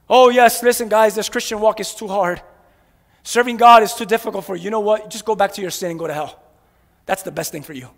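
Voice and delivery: sinking to a low sneering murmur; mock the voice that says give up, dropping away; mock tempter voice. Preacher mocks the voice urging sinners back, sneering. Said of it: "mocking the devil's advice".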